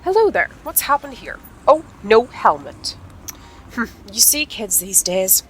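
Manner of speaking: lightly voiced brisk vet; tut-tut like a vet checking a patient. Vet examining Sonya with no helmet, lightly voiced brisk tone.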